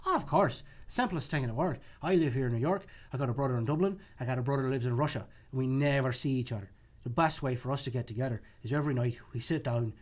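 lightly voiced Irish drinker; an easygoing Irish pub regular; Irish accent. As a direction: tell it with a light Irish lilt. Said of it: "here's an alcoholic Irish joke".

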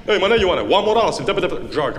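broken English interpreter. Acted. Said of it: "Are you serious?".

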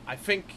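"think" said with an initial F; Cockney "think", F replacing the TH; Cockney TH-fronting. Shown as a demonstration. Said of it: "T H sounds become F sounds".

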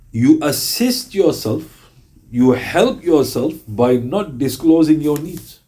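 slow, deliberate hadith quote; solemn recitation. Acted. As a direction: lay each word down slowly, with reverence. Repeating the hadith.

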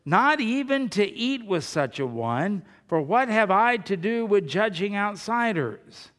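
forceful, measured Bible reading; scripture reading. Real, not acted. Preacher reads Paul's letter to the church, forceful scripture reading. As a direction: read the letter out emphatically, item by item.

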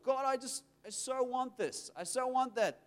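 acted-out yearning request; longing plea. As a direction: plead with God for what you crave. Acting out a heartfelt request.

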